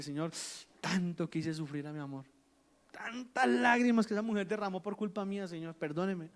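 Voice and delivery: a soft, humble plea for forgiveness; hushed prayer for pardon. Acted. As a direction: confess quietly to God. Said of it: "le pido al Señor perdón".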